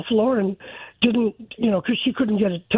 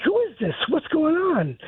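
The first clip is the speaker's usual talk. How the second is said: higher, mock frightened asking; a daughter in shock demanding who's calling, lightly voiced alarm; retold panicked questions; 9 semitones higher than usual. Daughter in shock asks the caller who he is, mildly frightened. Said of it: "she's in shock at this point".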